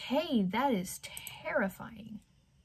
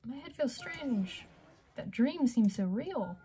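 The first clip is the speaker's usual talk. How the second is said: put-on higher, shaken voice of a scared girl; frightened young woman; 6 semitones higher than usual. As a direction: read it as a girl waking from a nightmare. Voices Ophelia's game lines.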